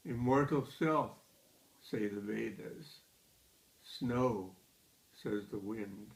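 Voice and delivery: measured poem recital with deliberate pauses; poetry reading. Acted. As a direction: read the poem line by line, letting each phrase stand. Reads third poem aloud.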